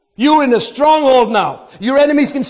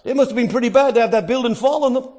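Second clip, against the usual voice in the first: mock musing; 3 dB quieter than usual. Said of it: "being self-proclaimed theologians, think".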